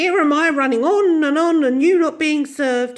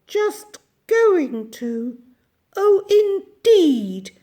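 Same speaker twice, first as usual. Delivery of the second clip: put-on slow, high, menacing old woman; fierce and terrifying; 5 semitones higher, 8 dB louder, slower than usual. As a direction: drag out each word to frighten. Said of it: "in a soft, fierce, terrifying voice".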